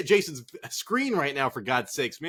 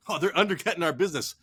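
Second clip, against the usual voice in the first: usual speaking voice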